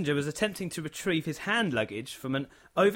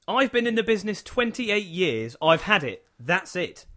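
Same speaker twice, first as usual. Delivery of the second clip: mock outburst; 4 semitones higher, 4 dB louder than usual. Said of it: "He continued".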